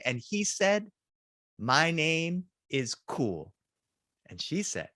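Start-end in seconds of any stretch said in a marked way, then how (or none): 1.6-3.5 slow, drawn-out proud declaration; a boy slowly and proudly telling the teacher his new name; proud announcement. Retold or imitated. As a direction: savour each word like a cool kid.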